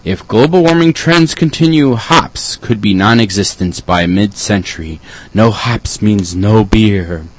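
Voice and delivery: dramatic flyer read. Acted. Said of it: "that's what it says on the flyer".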